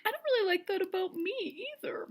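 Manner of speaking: unvoiced sheepish whisper; mock pathetic whisper; whispered confession. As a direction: admit it under your breath. Voicing Peter's confession.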